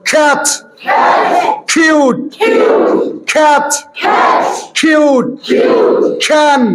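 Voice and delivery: ক্যাচ and কিউট with a breathy খ at the start; ক্যাচ, কিউট with an aspirated initial K. Shown as a demonstration. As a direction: say ক্যাচ as খ্যাচ, puffing the K. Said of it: "বলো".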